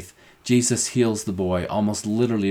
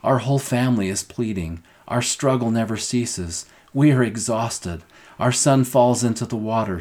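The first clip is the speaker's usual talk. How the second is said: pleading father; 3 semitones higher, 3 dB louder than usual. Acted. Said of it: "This man is saying, in effect".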